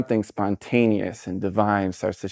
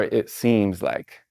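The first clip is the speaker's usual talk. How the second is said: slow demo phrase; much slower than usual. Shown as a demonstration. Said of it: "really good phrases".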